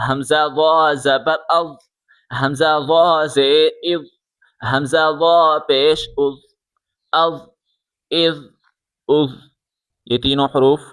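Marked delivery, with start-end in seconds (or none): 0.1-9.3 "وا" as a soft heavy voiced th; tongue tip on the upper teeth for "وا" and "از"; gentle th closing each "از"; soft heavy zha. Shown as a demonstration. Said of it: "نرمی کے ساتھ زبان کی نوک".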